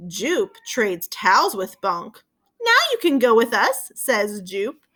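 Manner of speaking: slow, lively storybook reading; gentle read-aloud voice with voiced characters; reading to children. A narrator's reading. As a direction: read it aloud to a class of young kids. Reads picture book to children.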